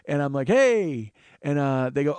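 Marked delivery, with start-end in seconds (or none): 0.5-1.1 high, loud, drawn-out holler; hammed-up excited hello; mock-hearty greeting. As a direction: greet the rowdy fans at their own pitch. Answers the whooping fans in kind.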